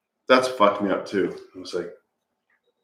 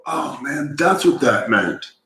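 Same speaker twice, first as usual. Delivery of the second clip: stoner voice; 6 semitones higher, slower than usual. Retold or imitated. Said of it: "Stoner voice".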